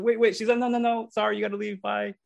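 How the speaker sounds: imitating a girl waving him off; high mock voice retelling a girl's brush-off. Retold rebuff at the stage.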